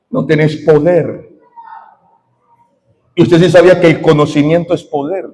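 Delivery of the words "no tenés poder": slow, drawn-out taunt in a slightly lowered voice; taunting demon. Retold or imitated. Demon telling the minister he has no power, slow taunt. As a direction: draw out "poder" like a taunting demon. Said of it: "y me decían".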